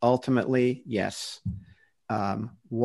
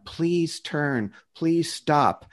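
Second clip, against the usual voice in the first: lightly acted plea, imitating God; pleading; 4 semitones higher, much slower than usual. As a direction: urge them to turn back. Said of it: "God pleaded with them".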